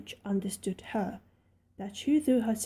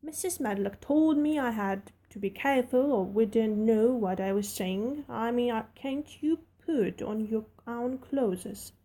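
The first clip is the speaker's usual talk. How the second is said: put-on friendly servant girl rattling on; Yorkshire maid Martha. Martha speaks.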